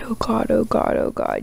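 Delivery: breathless frightened whisper; terrified whisper. Real, not acted. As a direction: whisper it scared stiff. Scared, hushed.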